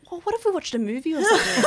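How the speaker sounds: playful laughing mock suggestion. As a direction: giggle out a lame hostage-movie idea. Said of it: "you'd be like".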